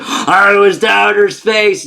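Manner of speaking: high, slow, drawn-out proclamation; hammed-up crowing of a returning space hero; mock triumphant boast. Acts out crash survivor boasting.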